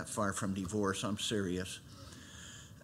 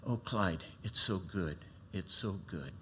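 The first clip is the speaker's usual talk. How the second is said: tearful joy; 4 semitones lower, 7 dB quieter than usual. Retold or imitated. Wife overcome, crying with joy.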